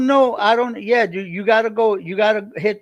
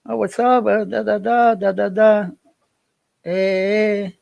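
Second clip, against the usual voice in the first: higher-pitched happy mom greeting; real happy; 4 semitones higher than usual. Retold or imitated. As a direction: imitate a mother's cheerful, sing-song hello. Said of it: "she's real happy".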